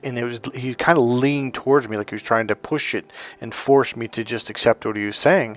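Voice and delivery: ordinary talk, nothing marked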